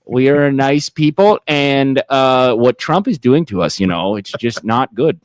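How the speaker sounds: polite Canadian accent, lightly played. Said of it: "Can you do a Canadian?".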